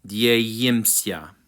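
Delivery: "Die yim sia" slowly as dyeh-yim-syah; short i in "yim", each syllable measured; correct pronunciation. Shown as a demonstration. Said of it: "it's technically".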